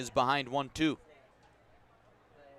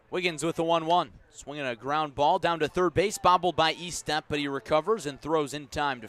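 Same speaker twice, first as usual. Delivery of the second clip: louder, rising play-by-play call; excited call; 3 semitones higher, 6 dB louder than usual. Real, not acted. Announcer calling the grounder to listeners, louder and excited. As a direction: lift the voice as the ball is bobbled.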